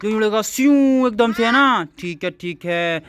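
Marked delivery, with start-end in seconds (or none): 0.4-0.7 imitated zoom. Shown as a demonstration. Man promising the child a flying aeroplane, imitated whoosh. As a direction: make a swooshing flying sound.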